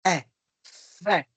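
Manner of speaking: long f hiss, then É, then Fé; syllable dictation. Shown as a demonstration. Teacher dictating syllables, Fé sounded out slowly. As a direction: sound out Fé in separated parts. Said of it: "trabalhando o ditado de sílabas".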